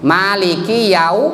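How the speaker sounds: slow "Yau" closing on a "u"; clear au. Shown as a demonstration. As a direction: draw out "Maliki Yau-" to a clear u. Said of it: "jangan Yao". ("Yau" dengan akhiran u jelas)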